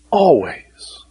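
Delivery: breathy whispered always. Acted. Whispered end of scripture quote.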